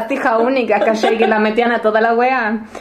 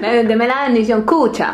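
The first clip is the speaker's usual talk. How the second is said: slower, playful Colombian lilt; Colombian accent; slower than usual. Acted. Chilean playing a Colombian child to mom, Colombian accent. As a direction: ask it slowly in imitated Colombian. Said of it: "vuelvo colombiana".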